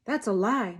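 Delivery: loud, high shout of denial; mother shouts. A narrator's reading. Mother shouts at sheriff, defending daughter. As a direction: hurl it back at him. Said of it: "Mama shouts".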